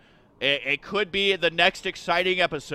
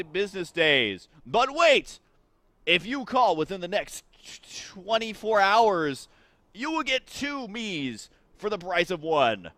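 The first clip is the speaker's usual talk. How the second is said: infomercial. Acted. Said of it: "I would be the worst infomercial guy ever".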